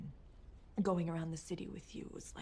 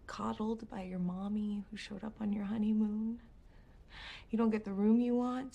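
raised voice, building accusation; angry retort; 3 semitones higher, 5 dB louder than usual. Acted. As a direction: throw the accusation back louder. Wife hits back in quarrel.

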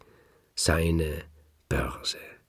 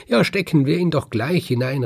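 raised, louder cry of agreement; calling out; 8 semitones higher, 6 dB louder than usual. A narrator's reading. Farmer eagerly agreeing with his wife, calling out. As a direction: jump in loud and high. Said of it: "rief der Mann".

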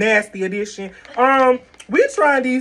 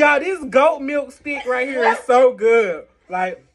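talking between bites; chewing while talking. Real, not acted. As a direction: mouth partly full. Seen 0: holds white stick at mouth, bites around 3.4–4.1s while talking.

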